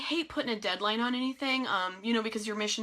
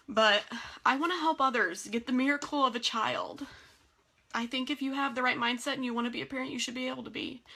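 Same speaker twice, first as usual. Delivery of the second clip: higher-pitched, heartfelt and close to tears; getting emotional; 3 semitones higher than usual. Real, not acted. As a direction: plead from the heart through real emotion. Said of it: "I'm sorry I'm getting emotional with y'all".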